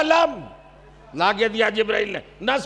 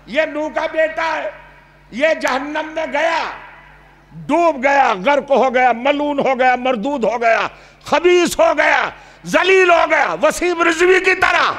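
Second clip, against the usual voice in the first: mounting condemnation; 3 semitones higher than usual. Real, not acted. Preacher condemns the son before the crowd, building angrily. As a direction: build the denunciation to a peak.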